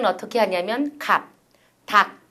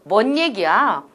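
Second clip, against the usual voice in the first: dismissive mock Vietnamese speakers; 4 dB louder than usual. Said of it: "해서".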